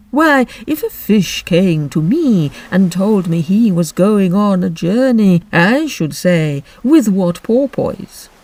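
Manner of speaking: slow, mournful turtle voice; Mock Turtle voice. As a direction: drag it out like a sad old turtle.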